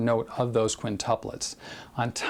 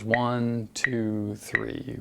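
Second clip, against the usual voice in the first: counting slow pulses; much slower than usual. Shown as a demonstration. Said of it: "So we have three pulses".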